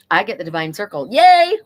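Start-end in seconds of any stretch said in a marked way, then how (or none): 1.1-1.6 high, loud squeal of joy; excited yay. Real, not acted. Reader cheers her own card reading, real excited squeal.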